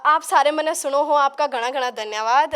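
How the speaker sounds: hearty Haryanvi dialect demo; Haryanvi accent. Shown as a demonstration. Guest thanks her visitors, showing off Haryanvi accent. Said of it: "Haryanvi".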